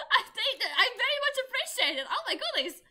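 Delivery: loud cheering thanks; loud celebration. Real, not acted.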